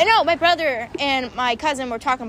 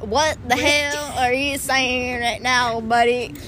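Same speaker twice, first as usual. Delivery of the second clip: country voice. Pretend. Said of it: "I can do the country voice".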